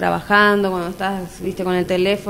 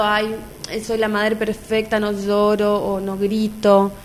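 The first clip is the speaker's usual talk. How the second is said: mock perfect mother; slower than usual. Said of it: "no me quedo".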